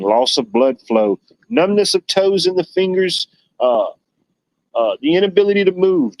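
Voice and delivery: hammed-up side-effects announcer; mock drug ad disclaimer. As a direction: parody the fine print of a medicine commercial. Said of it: "the summary of that medication".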